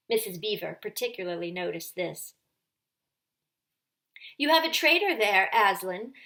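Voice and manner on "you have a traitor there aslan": higher, louder accusing witch; cold witch. Acted. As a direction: throw the accusation like a blade. Witch accuses before Aslan.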